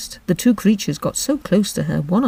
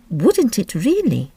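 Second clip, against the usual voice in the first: great surprise; 4 semitones higher, slower than usual. Acted. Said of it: "tone of great surprise".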